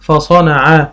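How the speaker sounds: قطع ونشر فصنع read slowly as one sentence. Shown as a demonstration. Teacher reading a sentence to a child, slowly. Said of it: "يقول إيه بقى".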